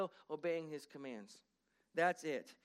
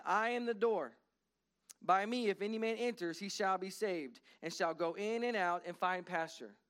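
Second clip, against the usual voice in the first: proclaiming scripture. Acted. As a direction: lift the verse up to the congregation. Reading John ten aloud.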